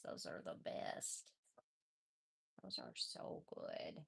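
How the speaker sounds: breathy whispered adoration. Real, not acted. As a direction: whisper it close to the kitten.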